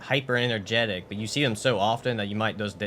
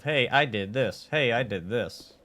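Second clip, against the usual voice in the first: scripted exposition voice; 2 semitones higher, slower than usual. Shown as a demonstration. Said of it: "I'm just giving exposition of".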